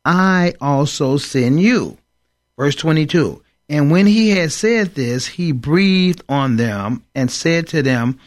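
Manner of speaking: slow, measured Bible reading; solemn slow scripture reading. Acted. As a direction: read the verses slowly and solemnly. Reads scripture aloud.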